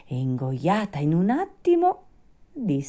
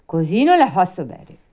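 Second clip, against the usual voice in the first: louder, higher puppet whine; Pinocchio, fussy; 5 semitones higher, 9 dB louder than usual. Acted. Puppet refuses the fairy's glass, fussy. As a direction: balk at the glass like a fussy child.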